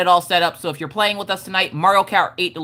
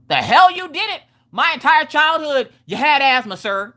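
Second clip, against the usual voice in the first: high-pitched, indignant retort; comic outraged protest, voice jumping up; retold yelling; 9 semitones higher than usual. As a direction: act out yelling back at dad. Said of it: "I'm yelling at the doctor's office".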